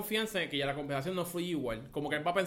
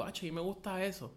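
quietly voiced quote; 6 dB quieter than usual. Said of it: "yo lo escuché que él dijo".

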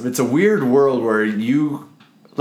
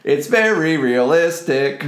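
robot voice through a toy megaphone; 4 semitones higher, slower than usual. Acted. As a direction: speak flat and slow through a tinny toy megaphone. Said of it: "Way better than your microphone".

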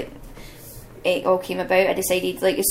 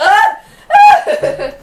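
high, loud imitated yelps of surprise; mock yelp; 12 dB louder than usual. Imitating Ryland being thrown, loud high yelps. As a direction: yelp like you're suddenly thrown down. Ryland yelling when choked.

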